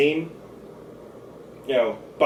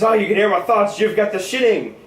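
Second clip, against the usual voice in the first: imitating Willie; 7 semitones higher, 3 dB louder than usual. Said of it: "He says".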